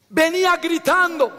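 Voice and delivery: loud, high preacher's cry; grito de predicador. Real, not acted. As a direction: cry it out to the congregation. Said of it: "Por eso yo grito". (grito fervoroso de predicador)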